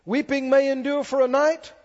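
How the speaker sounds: emphatic psalm reading building to a loud hallelujah; rousing pulpit proclamation; preaching scripture reading. Real, not acted. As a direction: declaim in measured phrases, swelling at the end.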